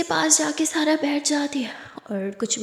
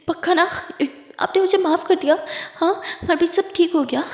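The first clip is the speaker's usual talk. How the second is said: hopeful excitement; 4 semitones higher than usual. Acted. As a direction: ask with rising relief and hope. Sara hears she's forgiven. (उत्साह से ऊँची आवाज़ में पूछना)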